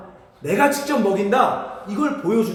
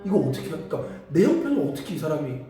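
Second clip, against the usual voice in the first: ordinary delivery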